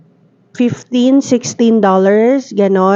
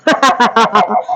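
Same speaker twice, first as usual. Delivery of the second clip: scary laugh through voice changer. Real, not acted. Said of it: "nakakatakot yung tawa".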